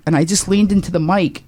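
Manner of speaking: ordinary talk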